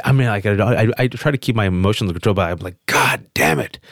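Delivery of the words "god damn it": muttered curse. Retold or imitated. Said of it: "A little bit angry".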